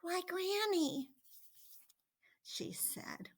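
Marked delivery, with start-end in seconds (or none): 0.0-1.1 put-on distressed girl. A narrator's reading. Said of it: "was distressed at seeing grandmother so changed".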